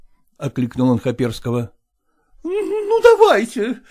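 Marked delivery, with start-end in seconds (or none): 2.1-3.8 much higher, sudden giving-in cry; woman blurting her surrender to the merchant; blurted out. A narrator's reading. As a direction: let it escape high and urgent. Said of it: "вырвалось у Зои Кондратьевны".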